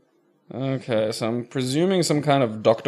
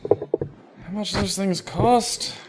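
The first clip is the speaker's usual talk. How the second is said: slow incredulous; 9 semitones higher, much slower than usual. Real, not acted. Incredulous drawn-out question.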